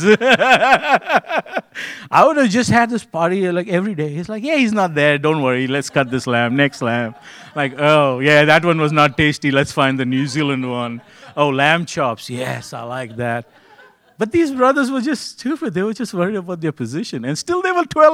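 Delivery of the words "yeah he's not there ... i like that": gleeful feasting brother. Retold or imitated.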